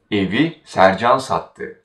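Sercan stands out before a falling sattı; stress on Sercan. Shown as a demonstration. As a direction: put the weight on Sercan. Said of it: "If we want to stress by whom".

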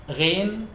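gargle gently on Ghain; gargled Ghain. Shown as a demonstration. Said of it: "This letter same as Ain".

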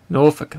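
Norfolk said as "Nor-fuk"; corrected pronunciation. Shown as a demonstration. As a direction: say Norfolk with a weak, short ending. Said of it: "Is that how you pronounce it?".

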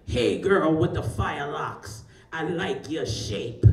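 slow, lazy man's catcall; mock slow come-on from a man on the beach. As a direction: stretch it out like a smooth stranger. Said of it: "and the voice is like".

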